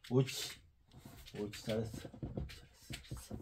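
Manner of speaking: soft praise fading to a whisper; talking to a dog. Real, not acted. Praising the dog after it sits.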